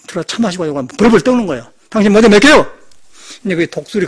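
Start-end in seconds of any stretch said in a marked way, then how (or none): 1.9-2.7 shouted mock threat; loud retold threat to an official; loud challenge. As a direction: bark the threat at him. Repeating his challenge.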